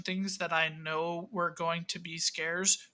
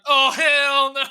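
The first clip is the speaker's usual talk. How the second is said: loud, high cry of refusal; scared shout; 7 semitones higher, 12 dB louder, slower than usual. Retold or imitated. Player reacting to the moving puppet, scared shout. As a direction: yell it as you recoil. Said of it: "I was like".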